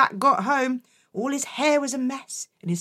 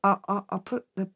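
put-on boy confessing to mum; whispered confession; 5 semitones lower, faster than usual. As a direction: barely dare to say it. Jack confessing, scared.

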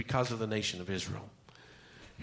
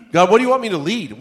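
incredulous question; 6 semitones higher, 9 dB louder, faster than usual. Retold or imitated. Moses acted questioning God's call.

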